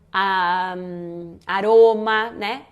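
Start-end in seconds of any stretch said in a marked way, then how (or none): 1.4-2.3 "aroma" with one quick tongue tap; weak tapped R. Shown as a demonstration. Teacher giving an easy example, single tapped R. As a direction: flick the R of "aroma" just once. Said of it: "o R fraco".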